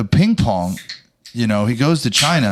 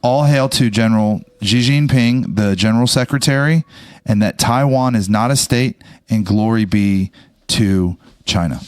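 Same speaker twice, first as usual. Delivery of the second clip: slow, grand decree; mock propaganda proclamation. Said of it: "I was hoping you could just repeat verbatim".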